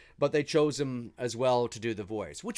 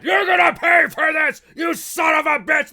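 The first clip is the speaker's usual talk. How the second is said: screamed high and loud, like the dying killer doll; imitating Chucky's furious yell; 12 dB louder than usual. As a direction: spit it out in full rage at the cop. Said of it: "I love the way he says that".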